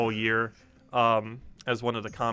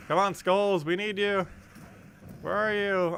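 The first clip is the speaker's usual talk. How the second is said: rally the Skulls, real urgency; excited gamer cheering a unit on; urgent calling out; 9 semitones higher, slower than usual. Real, not acted. Urging game character mid-battle.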